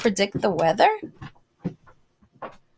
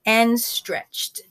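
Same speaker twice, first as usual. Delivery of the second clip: gentle read-aloud voice; storybook reading to a class; story narration. A narrator's reading. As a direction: read it like a bedtime story for children. Reads picture book to kids.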